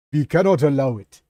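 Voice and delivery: forceful put-on Russian accent. Shown as a demonstration. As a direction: push out the line in a Russian accent. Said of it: "read it in the Russian accent".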